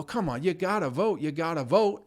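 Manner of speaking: mocking a friend pushing him to vote; pushy nagging voter. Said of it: "they'll go".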